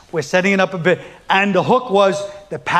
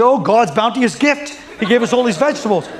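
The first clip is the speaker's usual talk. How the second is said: mock wonder; 3 semitones higher than usual. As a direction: marvel lightly like a grateful believer. Acting grateful people marveling at vegetables.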